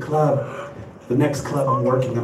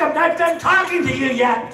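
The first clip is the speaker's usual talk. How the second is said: yelling dad; 13 semitones higher than usual. Retold or imitated. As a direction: call them back, not done yet. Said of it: "My dad's motto was".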